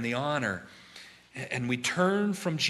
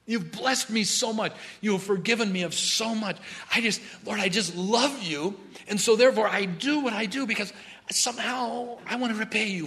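heartfelt prayer; 7 semitones higher than usual. Acted. Believer praying thanks to the Lord, tender and higher. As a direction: pour out gratitude to the Lord. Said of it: "instead of saying".

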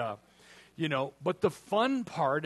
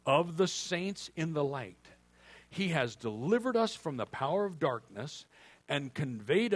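scripture reading. Acted. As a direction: read the verse deliberately.

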